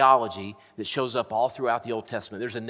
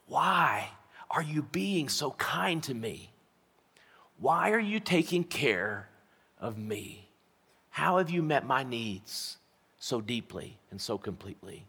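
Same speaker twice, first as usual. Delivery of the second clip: humble gratitude; 5 dB quieter than usual. Acted. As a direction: ask humbly, letting the phrases drop away softly. Ruth bows before Boaz, asking why.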